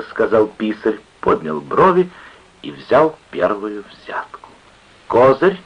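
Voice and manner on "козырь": pleased, higher and louder call; smug exclamation. A narrator's reading. Card player playing his trump, smug exclamation. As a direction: announce the trump with self-satisfaction. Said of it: "воскликнул он, самодовольно улыбнувшись".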